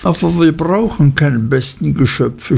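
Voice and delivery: a hint of a pout. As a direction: sulk like a spoiled girl. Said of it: "schmollte Dora".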